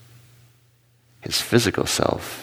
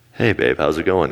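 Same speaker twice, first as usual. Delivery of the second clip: relaxed, released voice; 3 semitones lower than usual. Retold or imitated. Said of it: "now my throat's locked up".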